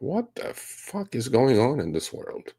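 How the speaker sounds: baffled disbelief. Retold or imitated. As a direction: slowly act out total disbelief. Acting out his baffled reaction to buyers.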